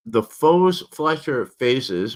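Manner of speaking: slow, careful words past a swollen tongue; speech impediment. Real, not acted. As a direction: fight to shape the sounds. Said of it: "that's hard to say with this speech impediment".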